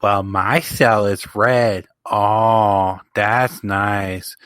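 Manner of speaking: slow, drawn-out mock boast; lightly acted, stretched-out put-on voices; bickering wrestling cells. Co-host imagining WWE comparing cell colours, slow mock bragging. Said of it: "I could just see W W E".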